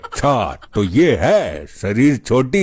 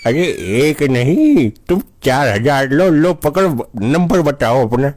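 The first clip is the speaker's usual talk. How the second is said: overexcited; 3 semitones higher than usual. Acted. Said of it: "ओ दादाजी, थोड़ा control में".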